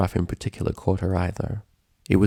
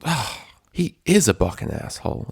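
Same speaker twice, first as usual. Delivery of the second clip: fuming; 4 semitones higher than usual. Acted. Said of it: "Applejack fumed".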